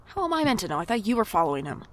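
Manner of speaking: loud, high, winded protests; out of breath. Acted. Clerk winded from chasing her, loud. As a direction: gasp it out after the run.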